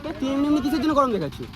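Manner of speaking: fast angry questioning. Real, not acted. Confronting the man who hit him.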